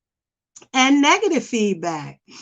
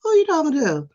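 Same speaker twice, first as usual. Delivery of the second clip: raised, sassy challenge; sassy comeback; 5 semitones higher, faster than usual. Retold or imitated. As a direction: snap back at a customer with attitude. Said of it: "I'll be like".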